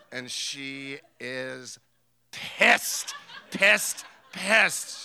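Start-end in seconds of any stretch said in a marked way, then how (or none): 2.3-5.0 pissed repeated high and loud through laughter; laughing, hit pissed each time; pissed pissed pissed, louder and higher through a laugh; laughing emphasis. Real, not acted. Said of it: "laughing emphasis on pissed".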